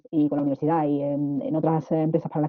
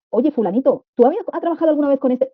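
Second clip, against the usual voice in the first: lightly voiced, higher, chatty colleague asking; friendly icebreaker question; 8 semitones higher than usual. Teacher acting out a chatty question to a new colleague, higher and friendly. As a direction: act out a casual question to break the ice.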